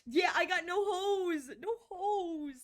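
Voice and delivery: laughing high while saying it. Real, not acted. Laughing to chat about having no women. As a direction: laugh through the words.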